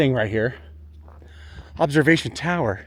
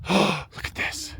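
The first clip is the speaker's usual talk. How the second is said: excited; 3 semitones higher, 8 dB quieter, much slower than usual. Real, not acted. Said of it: "I'm sorry, I'm excited".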